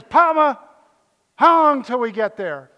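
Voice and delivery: put-on high, loud little-girl whine; little granddaughter. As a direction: plead "Papa" like a small child. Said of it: "my granddaughter went like this".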